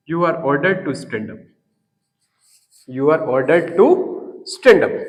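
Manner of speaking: slow, word by word dictation. Shown as a demonstration. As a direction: dictate slowly so students can write. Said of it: "इस वाक्य को जो करते हो छाप दो यहाँ". (धीरे-धीरे लिखवाते हुए)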